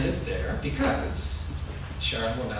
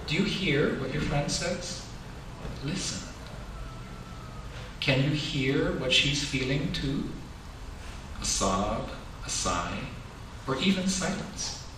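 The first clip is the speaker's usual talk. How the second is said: slow, gentle picture-book reading; reading to children; slower than usual. A narrator's reading.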